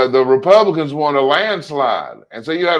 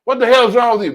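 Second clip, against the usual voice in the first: mock exasperation; 9 semitones higher, 4 dB louder, faster than usual. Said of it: "Most of us would be like".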